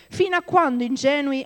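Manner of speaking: high, loud calling out; wisdom crying out. Acted. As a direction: cry it out like wisdom in the streets. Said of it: "Come se lei sta proprio gridando". (saggezza che grida forte e acuta)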